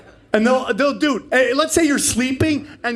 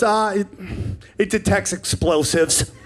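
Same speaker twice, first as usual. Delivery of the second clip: calm agent. Retold or imitated. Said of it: "in the most calm voice ever".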